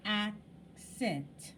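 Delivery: "Accent" with AC held and stressed over cent; stronger first syllable. Shown as a demonstration. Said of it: "see if I said it louder or softer".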